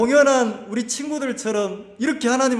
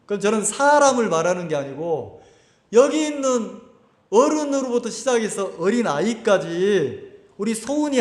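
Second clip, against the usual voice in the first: ordinary talk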